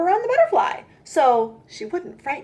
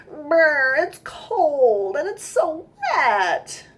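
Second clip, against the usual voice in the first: shivering, slow, teary whine; 4 semitones higher, much slower than usual. Acted. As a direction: say it shivering from cold water. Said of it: "Little Nancy shivered".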